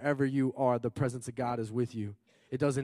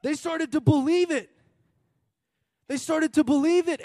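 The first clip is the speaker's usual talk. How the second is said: loud preaching; 13 semitones higher, 8 dB louder than usual. Real, not acted. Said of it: "repeats with force".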